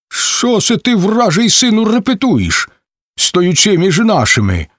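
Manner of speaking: high, hostile yell; angry shout. A narrator's reading. Zaporozhians yell at Cherevan for shouting, angry. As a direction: challenge him fiercely. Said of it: "крикнуть на його запорожці".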